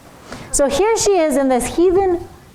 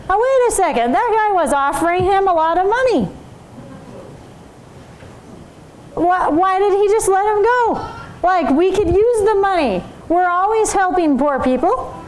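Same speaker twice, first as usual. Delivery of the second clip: eager servant Gehazi; 4 semitones higher than usual. Retold or imitated.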